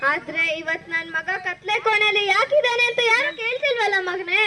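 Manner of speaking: weeping through the words; a mother's tearful lament; crying mother. Acted. Mother to her jailed son, speaking through tears.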